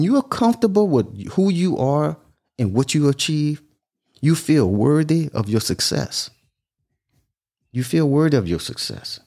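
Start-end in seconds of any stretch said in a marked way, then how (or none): 4.2-6.3 slow, deliberate statement; slow emphasis. Shown as a demonstration. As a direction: lay each word down slowly. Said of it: "repeated for emphasis".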